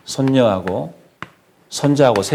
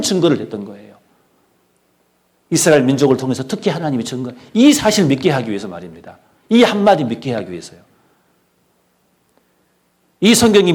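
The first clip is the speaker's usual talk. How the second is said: raised, insistent sermon voice; emphatic preaching; 4 semitones higher, 4 dB louder than usual. Real, not acted. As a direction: drive the message home from the pulpit. Preacher presses the closing point.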